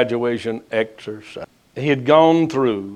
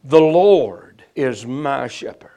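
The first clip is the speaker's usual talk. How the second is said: "The Lord is my shepherd" said louder with full affection; with felt love; 4 dB louder than usual. Shown as a demonstration. Preacher showing the flock how to say it with love. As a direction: say "The Lord is my shepherd" as if you feel it. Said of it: "feel the love that exudes from the statement".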